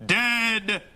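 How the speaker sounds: slow, defiant gun-rights orator; Charlton Heston. Retold or imitated. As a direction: growl it out like a defiant action hero. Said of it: "That's my Charlton Heston impersonation".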